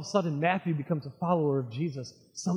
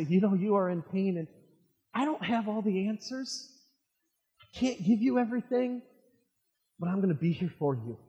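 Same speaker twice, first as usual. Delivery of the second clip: comforting friend; 3 dB quieter than usual. Acted. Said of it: "coming along someone and say".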